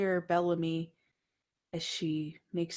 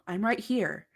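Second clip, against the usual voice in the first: yell; 4 semitones higher than usual. Acted. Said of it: "you wanna yell".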